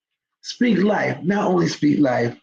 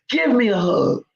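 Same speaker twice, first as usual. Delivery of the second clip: tender invitation. Shown as a demonstration. Teacher to the crying boy, a tender hug request. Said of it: "And I said it just like that".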